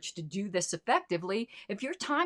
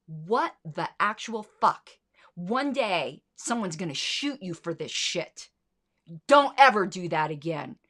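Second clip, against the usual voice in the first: retold scolding; 3 dB louder than usual. Woman cornering the kid in the alley, angry yell. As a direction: tear into the kid, then bark the warning.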